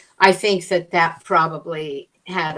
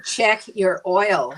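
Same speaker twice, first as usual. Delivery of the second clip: slow, separated words; slowly spelled out; 2 semitones higher, slower than usual. Retold or imitated. Decoding the gas station man's words, slow and distinct. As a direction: space out each word so it is understood. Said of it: "finally, I said".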